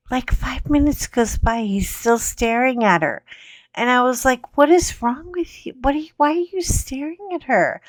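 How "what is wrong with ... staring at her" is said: exasperated. Retold or imitated. Exasperated at staring husband.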